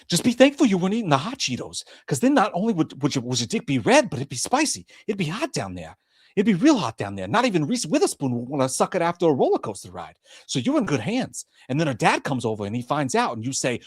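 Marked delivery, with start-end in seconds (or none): 0.1-11.5 as Marky Wargo. Acted. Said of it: "as Marky Wargo say".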